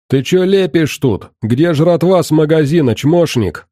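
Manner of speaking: put-on high furious drunken snarl; angry drunk. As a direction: lose patience and snarl. Drunk looter losing patience.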